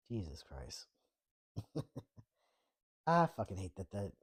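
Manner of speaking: a disgusted whispered aside; exasperated whisper. Real, not acted. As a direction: breathe it out under your breath, dismayed. Reacting to a bad AI summary.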